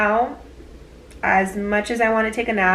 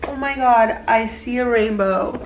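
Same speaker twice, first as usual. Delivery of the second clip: surprised. Real, not acted. Sees a rainbow on the beach.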